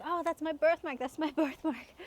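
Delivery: sudden realization. Retold or imitated. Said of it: "And I was like".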